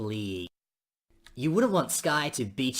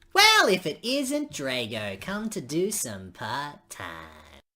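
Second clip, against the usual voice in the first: sneering greeting; 4 dB louder, much slower than usual. Acted. Rival greets Drago sneering.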